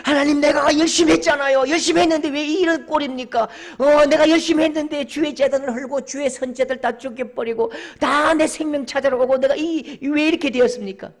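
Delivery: high, shouted lament; loud, impassioned outpouring of grievance; anguished protest to God. Acted. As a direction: hurl the complaint up to heaven. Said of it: "하나님 가슴을 치는 거예요".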